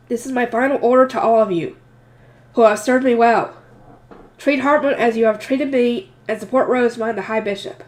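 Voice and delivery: nasal, choked up with emotion; slightly blocked nose, emotional. Real, not acted. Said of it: "Sorry if I sound nasally".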